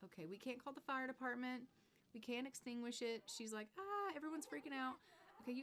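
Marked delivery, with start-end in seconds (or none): 3.8-5.0 high, hammed-up panicky cry; mock panic. Sim squealing at the burning lot, mock panic. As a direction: squeal it like a cartoon Sim losing it.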